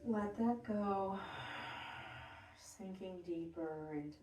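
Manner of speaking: calm breathwork cueing; guided breathing meditation. Acted. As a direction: guide the class through each breath, unhurried.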